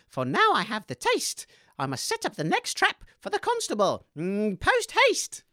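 low, gloating murderer voice; villain monologue. Acted. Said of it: "give us your performance".

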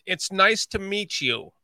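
slow Chicago accent demo; teaching a Chicago accent phrase. Shown as a demonstration. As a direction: model it slowly, like a Chicagoan. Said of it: "Just practice this".

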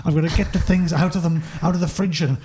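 indignant chef. Acted. Tony ranting in character.

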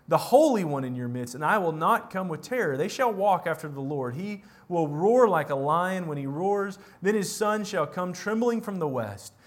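measured, solemn Bible reading; preacher reading Hosea aloud to the congregation; scripture reading. Acted. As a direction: read the prophet's words with weight.

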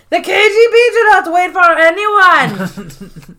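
retelling Dwight's slap line to a co-host, a hammed-up menace; mock menacing Dwight. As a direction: deliver it like a cold threat. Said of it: "slaps him across the face and goes".

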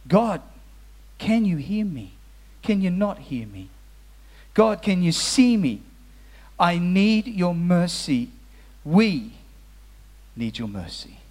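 slow, aching prayer, each phrase left hanging; desperate plea to God. Acted. Preacher voicing the street people's cry to God, a slow pleading prayer. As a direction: beg God to hear you, drawing out "need".

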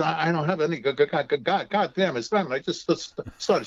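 stuttering blurt with a curse; mock Tourette's stammer, swearing mid-word; a retold friend's stammering outburst, lightly voiced; imitating Jerry's stutter. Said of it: "Told her she has Tourette's".

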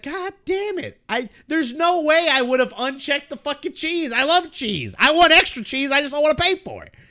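retold cheese rant. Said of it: "and I was like".

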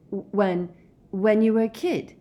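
stammered, rising high question; astonished Harry. A narrator's reading. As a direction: stumble over it in shock.

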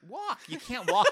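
loud, high exasperated cry; excited outburst. Pretend. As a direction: blurt it out, amazed.

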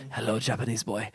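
put-on unconvincing stab at an Italian accent; soft, badly faked Italian that could pass for Japanese; botched Italian accent. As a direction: try an Italian accent and miss. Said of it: "was that supposed to be Italian".

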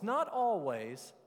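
loud, firm correction; emphatic contrast. Shown as a demonstration. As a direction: land Not like a verdict. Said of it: "See, I emphasized almost".

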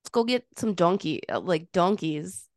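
half-hearted Boston accent. Shown as a demonstration. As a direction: try out rough Boston vowels. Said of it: "your Boston accent".

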